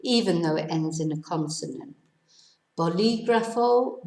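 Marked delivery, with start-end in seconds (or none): 2.8-4.0 "Bolígrafo" as bo-LI-gra-fo, stressed on LI; accented stress. Shown as a demonstration. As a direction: model "Bolígrafo" higher, weight on the second syllable. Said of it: "to stress the penultimate syllable".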